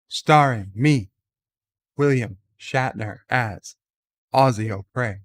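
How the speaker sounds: halting, dramatic pauses between phrases, lightly voiced Shatner; a hint of Captain Kirk, word by word with pauses; William Shatner impression. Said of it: "to do his Shatner impression".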